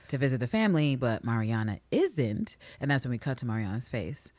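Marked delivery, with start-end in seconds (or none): none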